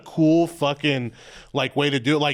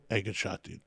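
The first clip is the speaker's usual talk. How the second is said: mock sportsmanlike praise; 6 semitones lower, 11 dB quieter than usual. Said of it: "like, shoot a good three point".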